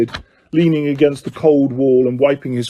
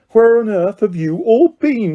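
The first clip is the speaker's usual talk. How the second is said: scolding lady; 6 semitones higher than usual. Acted.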